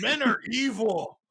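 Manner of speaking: mock bitter mom. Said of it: "mock mom voice".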